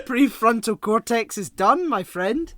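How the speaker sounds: loud, laughing mock disbelief; teasing through laughter. Real, not acted. Co-host teasing his friend about growing up, laughing loudly. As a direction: rib your friend while cracking up. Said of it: "I was like".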